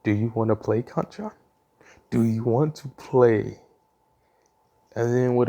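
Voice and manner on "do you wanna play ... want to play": demonic voice. Acted. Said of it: "you just hear a demonic voice go".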